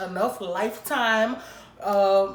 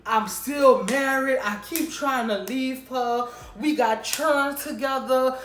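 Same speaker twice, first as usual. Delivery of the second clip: mock crying; 3 semitones higher, 3 dB louder, slower than usual. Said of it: "This man starts crying".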